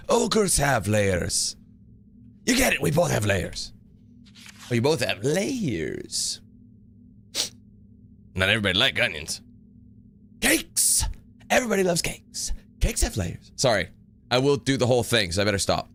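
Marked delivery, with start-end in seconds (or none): 0.1-3.7 very slow, deliberate Shrek lines; hint of Shrek explaining to Donkey; Shrek impression. 4.7-13.5 Donkey insisting on cakes; Donkey impression.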